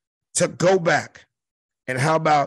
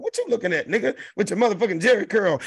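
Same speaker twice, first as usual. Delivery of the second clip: roasting comic; 3 semitones higher, faster than usual. Retold or imitated. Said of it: "that was just his style of comedy".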